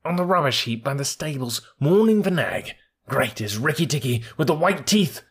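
high, chirpy bird voice, proud and excited; a tiny bird bragging; boastful little bird. Acted. Darzi answers.

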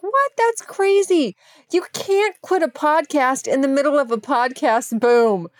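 mock-outraged tough New Yorker voice; incredulous friend. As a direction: scold her for quitting in disbelief. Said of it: "the way she said it and the way she delivered that line".

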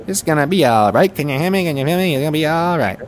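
lightly voiced raspy folk singer; sing-speak like an old folk singer; impression of a folk singer. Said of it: "Bob Dylan".

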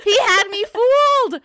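cracking up at how earnest he was; laughing. Real, not acted. Laughing to her co-host about being fooled by Freddie.

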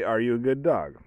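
lightly voiced talk to a dog; a hint of cooing at a pet; baby talk. Shown as a demonstration. Showing how owners baby talk their dogs. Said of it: "You baby talk it, but you say".

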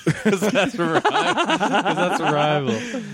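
quick line repeated through laughter; can't get past the joke for laughing. Real, not acted. Cracking up at own startup joke.

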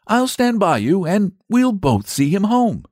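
put-on rally a tearful child kindly; lightly acted kindly ally; reassuring saint. A narrator's reading. Saint reassures the crying boy.

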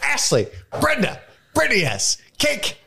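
barking names like he's mad at them; rising, angry roll call; sounding mad. Acted. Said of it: "I sound like I'm mad at them".

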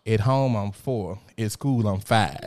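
retold loudly in short, slow phrases; imitating a young child's firm announcement; emphatic child's announcement. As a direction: proudly declare it to the teacher. Retells blurting it out to teacher.

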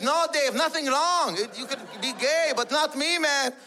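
high-pitched father defending himself; panicked denial. Retold or imitated. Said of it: "He panicked".

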